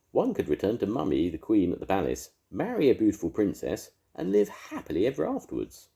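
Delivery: posh beast. A narrator's reading. Beast explains his wish.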